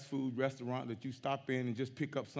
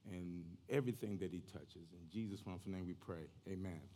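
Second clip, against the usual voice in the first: prayer. Real, not acted. Pastor praying over his congregation, prayerful. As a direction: pray plainly, easing down toward amen.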